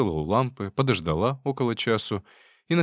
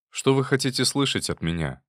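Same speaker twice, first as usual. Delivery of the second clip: ordinary delivery, nothing marked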